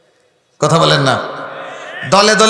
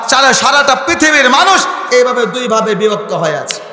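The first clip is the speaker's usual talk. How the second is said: preaching at full force, rhythmic list; fiery sermon. Acted. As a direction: drive each parallel phrase like a preacher.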